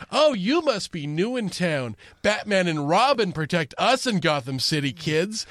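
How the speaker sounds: a mock sing-song, condescending to children. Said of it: "this weird sing-song, like, condescending tone".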